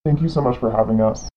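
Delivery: digitally altered anonymous voice; disguised deep voice. Real, not acted. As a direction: voice changed to hide identity. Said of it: "We've altered their voice in order to protect their identity".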